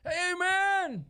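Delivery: high-pitched stoner "Hey, man"; squeaky Cheech and Chong stoner. Retold or imitated. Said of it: "it's like".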